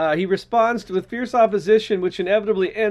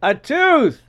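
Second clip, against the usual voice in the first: louder, spelling it out for grandma; to someone hard of hearing; 3 semitones higher, 5 dB louder, slower than usual. Pretend. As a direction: raise your voice for a deaf grandma. Answering deaf grandma.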